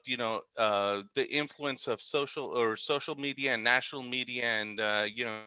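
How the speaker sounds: choppy audio, words dropping out; bad connection, voice cutting out; radio breaking up. Real, not acted. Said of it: "Uh, we lost you again".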